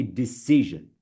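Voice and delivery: DECISION as di-SEE-zhun, long middle vowel; correct model. Shown as a demonstration. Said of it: "It's not d".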